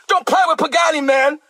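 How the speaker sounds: fired up, riding the momentum; amped up. Real, not acted. Preacher caught up in his own point, amped up. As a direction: let the excitement carry you. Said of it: "I'm sorry, I get amped up".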